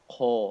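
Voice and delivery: Ko said heavy with a full mouth. Shown as a demonstration. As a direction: round full Ko. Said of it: "completely full".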